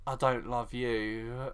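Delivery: slow, low, soft imitation of heartbreak; mock holding back tears. Host mimics Sharon rejecting Ian, understated inner crying. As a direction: say it slowly, as if crying inside. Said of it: "like, crying, like, inside".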